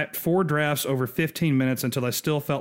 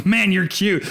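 doting parent gush; 6 semitones higher, 6 dB louder, slower than usual. Retold or imitated. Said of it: "thirty minutes of going".

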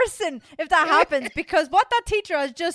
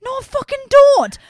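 loud; 10 semitones higher, 9 dB louder than usual. Real, not acted. Ranting at teacher.

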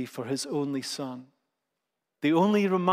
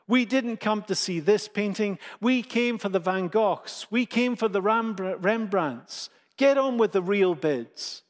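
a touch of annoyed protest, only mildly raised; angry shout; 3 semitones higher than usual. Acted. Annoyed bidder protests to the auctioneer, mildly angry. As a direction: complain impatiently, understated anger. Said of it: "Someone shouted out angrily".

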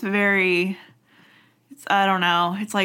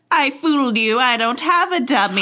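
mock gloating; 3 semitones higher, 4 dB louder than usual. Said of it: "He'd like".

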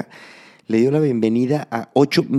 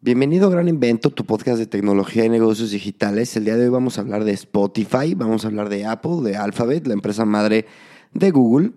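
podcast intro. Acted. Podcast host opens the show.

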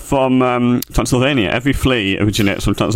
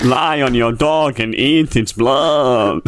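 mock Transylvanian flea; slower than usual. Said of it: "they keep their roots in their accent".

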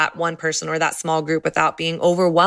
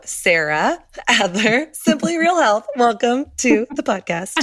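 excited welcome; 6 semitones higher than usual. Real, not acted. Host welcoming guest with fanfare.

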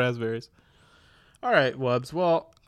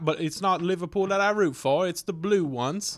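put-on British football-fan accent; British soccer fan; 4 semitones higher than usual. Shown as a demonstration. Guest plays an Everton supporter, put-on British accent. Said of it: "be a British, uh, soccer fan".

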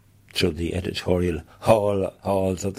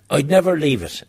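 a sudden raised, higher voice, mock-ominous; mock warning; 8 semitones higher, 6 dB louder than usual. Warned on coming to Kerry, loud mock doom. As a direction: boom it out like a dire warning. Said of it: "I was warned that".

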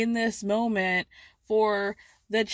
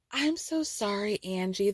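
mock sweet apology; 4 dB quieter than usual. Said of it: "doing her, like, Oprah brunch, very sweet".

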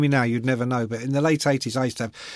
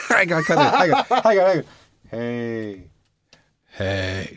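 giggling attempt; slower than usual. Real, not acted. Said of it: "I'll give it a go".

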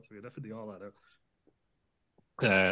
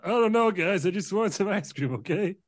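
Joe Biden; 8 semitones higher than usual. Acted. Biden voiced, whiny.

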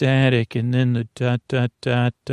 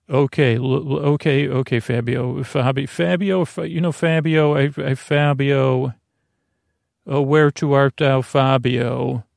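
stammering, mock-dramatic swoon; a hammed-up lovestruck stammer; flustered speaker. The speaker fumbling over Fabio's name, mock dramatic. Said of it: "non-regular voice".

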